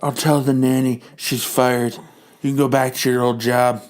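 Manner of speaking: a sly villain queen giving orders; Madam Hydra voice. Acted.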